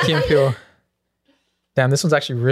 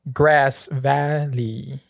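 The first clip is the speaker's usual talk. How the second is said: substitute teacher; much slower than usual. Pretend. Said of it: "read it like a substitute teacher".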